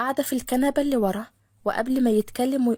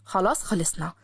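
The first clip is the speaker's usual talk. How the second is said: lower, curt impatient man; Khaled annoyed; 5 semitones lower than usual. Acted. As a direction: cut it short, lower. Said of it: "نفخ خالد بضيق". (خالد متضايق بصوت أوطى)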